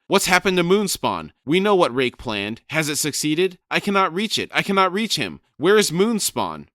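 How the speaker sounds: loud, high furious squawking shout; shouting raven. Acted. Crone shrieking at Brood to find Rake, loud and high.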